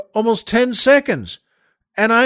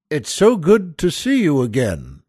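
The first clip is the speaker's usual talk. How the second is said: reluctant greeting; 5 semitones lower than usual. Retold or imitated. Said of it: "As if that's the last thing it is to him".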